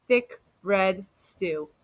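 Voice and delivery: slow, relishing answer; savoring. Acted. Amu proudly naming her stew, slow and savoring. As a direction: draw out each word lovingly.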